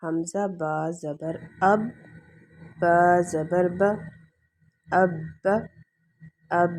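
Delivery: slow syllable spelling of اب; اب read letter by letter; spelling out slowly. Shown as a demonstration. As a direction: sound out با زبر ب slowly. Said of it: "دوسرا ہمارے پاس متحرک با".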